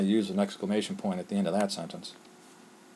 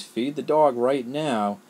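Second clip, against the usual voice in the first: slow, louder and higher parent's order; mock angry yell; 4 semitones higher, 4 dB louder, much slower than usual. Parent upset about the unfed dog, yelling the order. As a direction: drag out a mad parent's command. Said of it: "expressing it with strong emotion".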